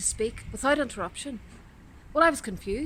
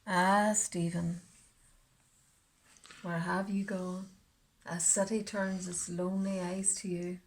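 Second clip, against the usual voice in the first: wistful lament; 3 semitones lower, 6 dB quieter than usual. Acted. Mournful appeal to absent Stephen.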